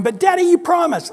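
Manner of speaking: put-on high, whining child voice; a child whining at dad; whiny kid. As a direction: plead like a nagging kid. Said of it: "your kids annoyed you by going".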